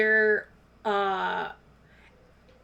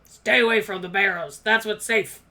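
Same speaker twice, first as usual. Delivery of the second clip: gruff dwarf; 6 dB louder than usual. Acted. Dwarf warns, louder.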